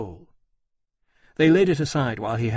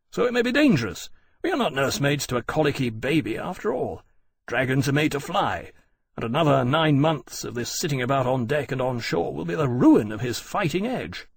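lively, insistent argument; impatient aviator; 2 semitones higher than usual. Acted. Aviator arguing to fly despite danger, insistent. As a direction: argue the case for going, with emphatic lifts in pitch. Granby argues for going.

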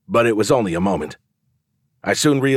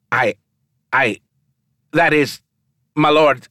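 high, shaken stammer; stammer, scared of the lord; 6 semitones higher, 4 dB louder than usual. A narrator's reading. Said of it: "Pavel seemed visibly shaken".

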